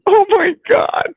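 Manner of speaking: high, loud overjoyed chant; ecstatic yelling. Real, not acted. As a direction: scream it again and again in delight. Celebrating a great throw.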